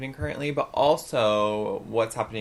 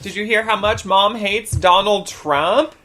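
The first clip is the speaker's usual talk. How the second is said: loud, high, drawn-out mock tattling; calling out; 9 semitones higher, 11 dB louder, slower than usual. Granddaughter tattling to deaf grandma, calling out. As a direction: holler it slowly to someone deaf, with laughter.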